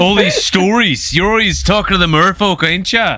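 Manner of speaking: lightly mocking the accent back; mimicking Iwi's accent. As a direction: tease him by copying his accent. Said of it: "this is how I sound when I come over in here".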